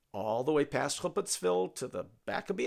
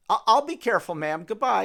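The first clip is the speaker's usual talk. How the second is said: simple Jackie's voice; 6 semitones higher, 12 dB louder than usual. Acted. Jackie answers the old woman.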